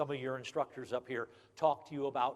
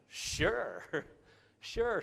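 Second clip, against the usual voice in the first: laughing; 5 semitones higher than usual. Retold or imitated.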